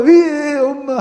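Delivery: put-on high baby whimper, old-fashioned; baby cry. Imitating a baby crying for mom. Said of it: "하고 우는 거예요".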